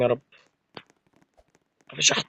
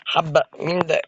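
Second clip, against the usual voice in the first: ordinary talk, nothing marked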